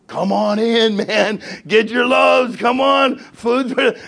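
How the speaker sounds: calling out. Retold or imitated. Pastor calling fellow pastors to collect food, calling out.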